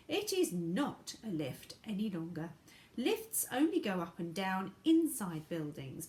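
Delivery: emphatic character voice, falling away at the end; lightly voiced Mister Wonka. Wonka corrects Grandma about the lift, lightly voiced and emphatic. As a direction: explain it with a showman's emphasis.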